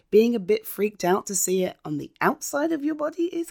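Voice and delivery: kind gentle laugh through words; laughing gently. Real, not acted. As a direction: chuckle kindly while reassuring. Reassuring friend about blood.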